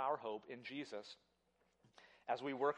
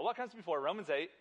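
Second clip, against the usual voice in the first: "What" louder, pushing the crowd; louder ask; 2 semitones higher, 4 dB louder than usual. Shown as a demonstration. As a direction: rouse the audience to answer. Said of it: "Come on, y'all".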